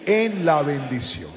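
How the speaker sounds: slow, emphatic lead for a crowd; strong call-and-response. Shown as a demonstration. Preacher leading the church to repeat the title, slow and strong. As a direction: stretch each word so all can join. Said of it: "repetirlo conmigo fuerte".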